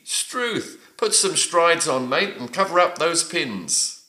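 high-pitched surprise, falling at the end; surprised exclamation. Shown as a demonstration. Teacher reading quiz answer D in Aussie slang, mildly surprised. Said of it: "struth is a way of expressing surprise".

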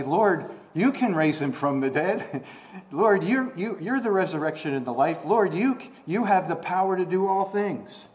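rising, fervent Lord you can; excited declaration of faith; eager confession of faith. Pretend. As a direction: voice an eager believer crying out to Jesus. Imagined believer's bold confession.

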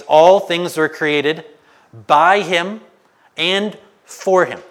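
preacher reading Colossians to the church, lifted and loud; scripture reading. Acted. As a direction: read the verse out like a proclamation to the congregation. Reads Colossians aloud.

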